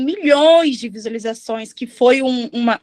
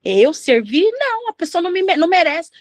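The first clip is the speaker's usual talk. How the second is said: higher, scoffing mock refusal; indignant "Eu servir?" in a mocking higher voice; 5 semitones higher than usual. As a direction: play a scornful churchgoer refusing to serve. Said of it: "Quem já falou assim?".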